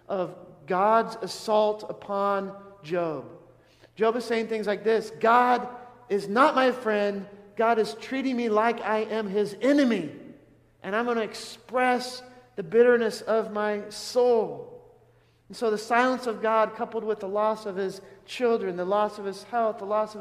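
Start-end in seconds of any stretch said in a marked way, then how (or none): 5.2-14.7 loud, bitter lament; bitter complaint. Retold or imitated. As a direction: cry out bitterly against God.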